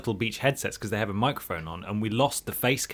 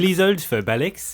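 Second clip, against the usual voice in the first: mock receptionist; 7 semitones higher than usual. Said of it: "stupid sort of chittering thing".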